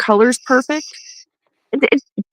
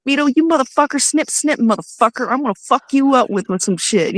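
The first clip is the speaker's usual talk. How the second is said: retold angry threat; 4 semitones higher than usual. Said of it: "I was losing it".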